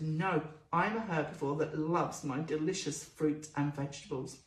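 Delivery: a hint of a content little pet; guinea pig answering. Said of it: "She said".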